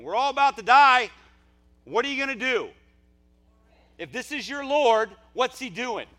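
high, loud desperate shout; crying out. Acted. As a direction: cry out in panic as if doomed. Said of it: "people crying out saying".

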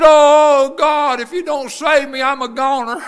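retold desperate prayer, sinking at the end; crying out to God. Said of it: "I cried out to God".

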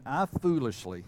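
"foolishly" given deliberate weight; stress on foolishly. Real, not acted. Preacher owning up to last year's mistake, stressing "foolishly". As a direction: lean firmly on the word "foolishly". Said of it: "I emphasize the word foolishly".

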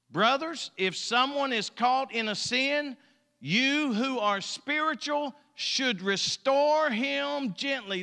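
high, measured pulpit reading; scripture reading. Acted. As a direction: proclaim each phrase to the congregation. Reads scripture aloud.

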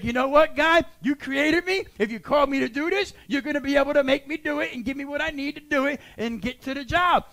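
bold declaration to God. Pretend. Believer's bold prayer voiced.

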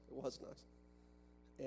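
slow breathy whisper, wistful and mock-sad; mock-mournful whisper. Preacher jokingly whispers over his ruined minivan, mock-mournful. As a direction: whisper it like grieving an old minivan.

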